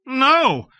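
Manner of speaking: put-on boy's high, loud No; little boy yelling back from safety; cried lustily. A narrator's reading. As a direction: shout it like a defiant child. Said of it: "I cried lustily".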